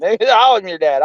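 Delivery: said slowly through a laugh; laughing, drawn out. Retold or imitated. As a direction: stretch out I'm your dad while laughing. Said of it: "repeated slowly with laugh".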